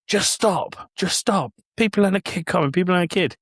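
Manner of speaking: high-pitched London roadman warning; roadman teens. Retold or imitated. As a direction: wave people through like a roadman teen. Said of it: "talking a little bit roadman".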